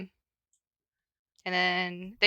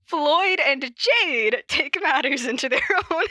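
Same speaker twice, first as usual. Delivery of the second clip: giggly fresh start; 5 semitones higher than usual. Real, not acted. Restarting the read, giggling.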